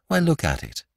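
high, urgent exclamation without volume; crying out. A narrator's reading. Priest holding out the crooked knife, crying out. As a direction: urge them to look. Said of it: "cried Father Brown".

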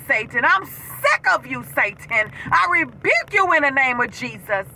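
slow, forceful preaching declaration; fiery preaching. Real, not acted. Preacher rebuking Satan before her viewers, fiery. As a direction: proclaim it against the devil.

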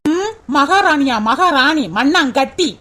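slow sneering drag; scornful. Acted. Sister-in-law scoffs at the girl calling herself queen, slow scorn. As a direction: sneer out the words slowly.

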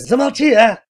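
husband snapping at his wife to shut up. A narrator's reading.

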